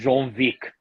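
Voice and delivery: put-on German-accented John Wick, V for W. Showing how Germans would say it, in a German accent. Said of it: "That's, that's how it is".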